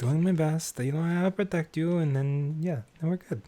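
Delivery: pixie voice. Acted. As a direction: answer like a devoted tiny pixie. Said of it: "Can I speak with my pixie?".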